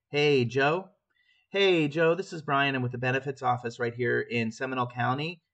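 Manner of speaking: rattled off too fast; hurried run-on opener; rushed call. Shown as a demonstration. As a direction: rush it so nobody can follow. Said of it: "they're not gonna hear all of that".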